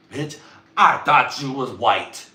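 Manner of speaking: mock outraged shout. Reacting to a light-skinned woman, mock outraged shout. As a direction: call her out with hammed-up shock.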